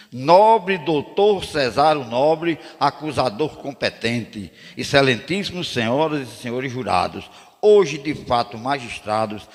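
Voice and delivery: slow, solemn formal address to the jury; courtroom address. Retold or imitated. Lawyer opening a jury trial, solemn and slow. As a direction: open the defence with grand slowness. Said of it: "Aí eu disse".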